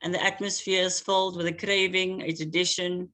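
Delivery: measured, rhythmic spoken-word delivery; poem reading. Acted. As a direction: let each image land with long pauses. Poet reads her poem aloud.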